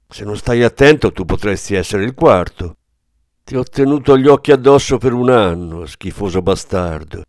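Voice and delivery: loud, threatening cop's voice, lightly voiced; menacing Kleber. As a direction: lean in and threaten hard. (minaccia a voce alta, dura)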